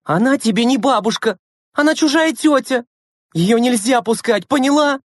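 high, insistent reprimand; angry scolding. A narrator's reading. Lena forbids Anyutka to admit granny, scolding. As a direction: drive it home to a small child. Big sister quarrels with little one.

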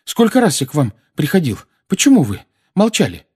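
pressing, aggrieved questioning; indignant reproach. Acted. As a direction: demand an explanation. Boy reproaches woman for silence.

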